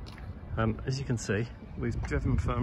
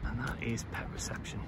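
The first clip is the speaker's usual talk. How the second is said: whisper; 7 dB quieter than usual. Real, not acted. Hushed aside while filming.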